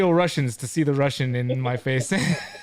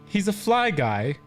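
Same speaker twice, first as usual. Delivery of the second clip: improvised poetry; 2 semitones higher than usual. Pretend. Host making up a little poetry to sign off, improvised recital. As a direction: declaim a homemade rhyme, pausing between phrases. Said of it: "do a little poetry here".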